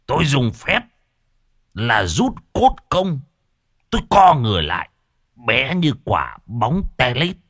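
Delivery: lightly voiced braggart telling his exploits; boastful ghost hunter. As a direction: show off, drawing out and lifting the magic feats.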